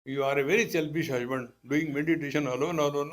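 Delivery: loud scolding of a selfish husband; scolding wife. Retold or imitated. Wife loudly scolds her husband for meditating alone. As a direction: hammer the blame home, loud.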